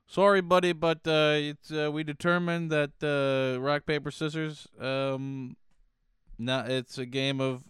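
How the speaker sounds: playing a smug official saying sorry; mock official apology.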